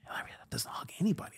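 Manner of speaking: fast, breathy whispered aside; hushed whisper. Retold or imitated. Crew whispering to Chris about Larry, fast whisper.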